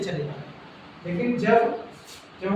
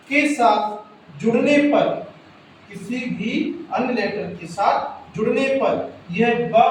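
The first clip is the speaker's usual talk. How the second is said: slow emphatic dictation. Shown as a demonstration. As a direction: dictate it firmly, phrase by phrase. Dictating rule again.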